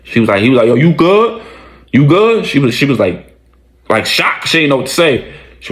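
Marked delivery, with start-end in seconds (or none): 0.7-2.4 higher-pitched, rising question; retold concerned check. Man checks on Samantha after the fight, raised-pitch asking. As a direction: imitate someone checking in, pitched up.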